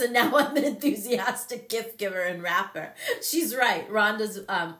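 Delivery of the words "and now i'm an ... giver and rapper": laughing quote. Retold or imitated. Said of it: "Rhonda says".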